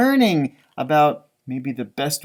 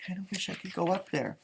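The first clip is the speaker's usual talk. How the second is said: wistful inner thought; 2 semitones higher, 11 dB quieter, faster than usual. Acted. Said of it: "He's thinking".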